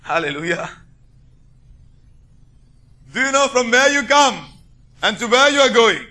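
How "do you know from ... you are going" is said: higher, emphatic preacher's question; preaching challenge. Real, not acted. Preacher asking believers where they are bound, preaching challenge. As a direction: throw the question out to the congregation.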